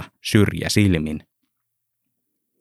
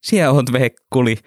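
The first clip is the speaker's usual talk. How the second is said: smiling; 6 semitones higher than usual. Acted. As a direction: tease a friend fondly. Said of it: "Henttonen hymyili".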